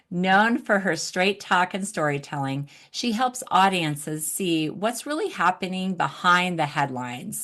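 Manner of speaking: measured host reading a guest bio; introduction read. Real, not acted. Host introducing nonprofit expert to audience, introduction read. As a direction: present the guest's credentials to listeners. Reads guest's biography aloud.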